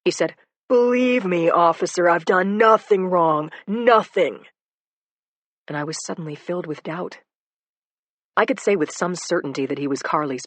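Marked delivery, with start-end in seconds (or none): 0.7-4.5 conciliatory. Acted. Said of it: "his tone was conciliatory".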